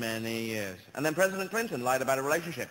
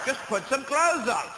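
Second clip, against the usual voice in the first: higher, louder, slow sniffy order; snooty scold; 8 semitones higher, 4 dB louder than usual. Acted. Colonist telling natives to dress, slow snooty order. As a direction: lift the pitch and look down your nose.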